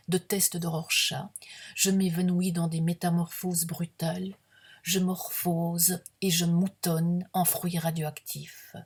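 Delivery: measured, projected poetry reading; deliberate literary recital with pauses between images; poem recitation. Acted. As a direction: read it as solemn verse, phrase by phrase. Reads own poem aloud.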